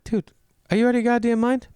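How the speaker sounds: high-pitched incredulous scolding; mock outrage. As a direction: berate him with pitch shot way up. Comedian berating a low tipper.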